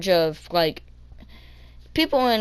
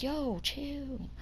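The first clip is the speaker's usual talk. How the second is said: much softer, higher retold aside; muted protest; 8 semitones higher, 13 dB quieter than usual. Kid to rude bus driver, muted retold protest. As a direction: protest quietly, as if unheard.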